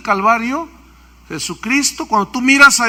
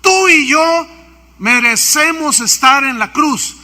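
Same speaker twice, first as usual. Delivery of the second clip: retold rebuke, raised; 5 semitones higher, 3 dB louder than usual. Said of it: "le gritaba".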